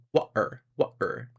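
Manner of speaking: "water" with the T swallowed in the throat; glottal T water. Shown as a demonstration. Showing how Brits say water. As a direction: drop the T in "water", British style. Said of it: "Brits don't say the T in water".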